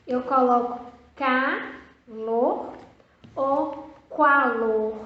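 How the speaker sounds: calor then qualor slowly, kwa in the wrong one; slow choice question. Shown as a demonstration. Teacher asking whether calor or qualor is right. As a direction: weigh the two forms aloud. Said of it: "Só pode ser o C A".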